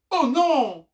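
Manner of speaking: high, loud cry of dismay; alarmed cry. Acted. Narrator sees the goats' trailer breaking away, alarmed cry. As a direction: cry out as disaster strikes.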